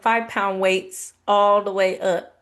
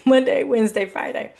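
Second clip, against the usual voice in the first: Monday louder with a laugh, Wednesday, Friday trailing off; laughing self-correction; 3 semitones higher, 4 dB louder than usual. Real, not acted. Correcting her slip for viewers with a laugh. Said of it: "I mean, excuse me".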